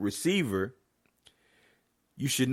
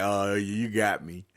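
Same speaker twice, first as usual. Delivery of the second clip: mock sheepish player; 3 semitones lower, slower than usual. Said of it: "kinda smile and laugh like".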